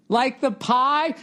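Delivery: high, slow puzzled clerk voice; clueless clerk. Retold or imitated. Grocery clerk misunderstanding him, high slow puzzled voice. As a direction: play the confused clerk, stretched out. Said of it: "They're like".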